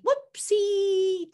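high, drawn-out whoopsie; happy praise sound. Shown as a demonstration. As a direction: sing out WHOOPSIE slowly, high on a long last syllable. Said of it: "to sound like good dog".

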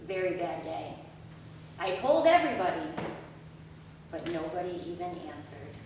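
put-on expressive storybook reading to kids; reading to children. Children's pastor reads Alexander's story to the kids, expressive storytelling. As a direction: read it like a picture book for the little ones.

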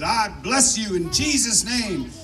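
lightly imitated fervent blessing, drawn out; slow, insistent retold blessing; old churchgoer's blessing. Old man outside church praying over a passer-by, lightly mimicked fervour. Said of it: "this old guy grabbed me and he said".

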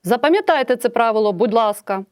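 «Запам'ятайте» urged with emphasis; exclamatory request. Shown as a demonstration. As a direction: plead it with strong emotion. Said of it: "з такою інтонацією". (окличне прохання, емоційно)

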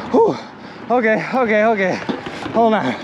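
panting between words; winded, catching breath. Real, not acted. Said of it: "I'm out of breath".

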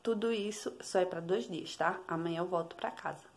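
hushed whisper to the camera. Real, not acted. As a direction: keep it a breathy secret. Aside to camera, baby near.

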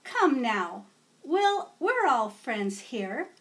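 slow, gentle calming teacher; teacher calming kids fighting over king; soothing teacher. Acted. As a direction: settle the squabbling kids. Teacher calms children.

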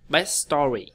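"Best story" run together as bes-story; dropped T. Shown as a demonstration. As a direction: drop the T of "Best". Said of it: "mất chữ T chỗ này".

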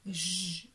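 J held as a long consonant; drawn-out letter sound. Shown as a demonstration. Teacher shows a child the first sound, drawn out. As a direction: stretch the sound of J. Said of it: "Ça fait".

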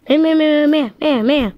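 high, rapid cat meows; a cat yowling at the fire; cat meowing. Acted. Cat yowling at the fire, high-pitched meows.

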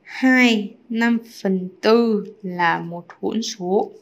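very slow, drawn-out words; spaced out for writing along; slow dictation. Real, not acted. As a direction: dictate it slowly as you write. Writing out the answer slowly.

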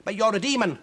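high, loud put-on bold witch; witch faking boldness. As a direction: bluster to hide fear. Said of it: "said Huddle".

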